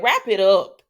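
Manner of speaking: loud, firm call to wrap it up; emphatic demand. Real, not acted. Vlogger telling the show to end a storyline, loud demand. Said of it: "Okay, I'm gonna say it".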